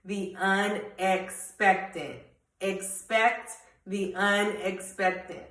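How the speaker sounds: very slow with a laugh, stressing "unexpected"; slow, smiling repeat of the message; slow emphatic motto. Shown as a demonstration. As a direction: drag out "unexpected" and let it land. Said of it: "But the message".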